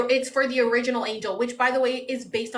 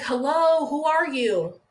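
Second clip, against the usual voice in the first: mock frustrated call; 4 semitones higher, 3 dB louder, slower than usual. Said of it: "I used to get so mad".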